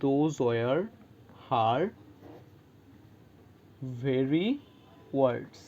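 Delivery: slow and low, each word spaced out, weight on very; emphatic very. Shown as a demonstration. Teacher showing very as an emphatic adjective, slow and stressed. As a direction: drop the voice and set every word apart. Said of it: "মানে আমি আরও জোর দিতেছি".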